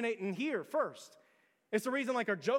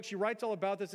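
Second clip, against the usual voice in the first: usual speaking voice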